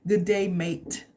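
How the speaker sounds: light mock Australian "Good day, mate"; a hint of an Aussie greeting; casual Australian twang; Australian accent. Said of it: "This is an Australian".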